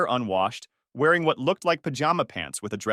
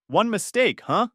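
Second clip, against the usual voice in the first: higher, louder, scornful throwback of "One mistake"; mocking echo; 9 semitones higher, 4 dB louder than usual. Narrator mocks her phrase.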